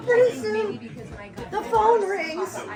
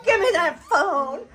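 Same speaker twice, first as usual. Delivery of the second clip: mock demand; 5 dB louder than usual. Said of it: "Sutton goes".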